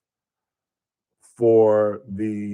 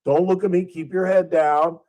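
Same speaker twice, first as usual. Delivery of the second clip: raised-pitch police orders, acted out; imitated cop; 8 semitones higher than usual. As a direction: play an officer directing a suspect. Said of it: "He was like".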